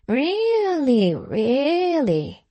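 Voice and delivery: high, swooping, drawn-out words; bland patriarch. A narrator's reading. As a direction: croon each word in a long arc.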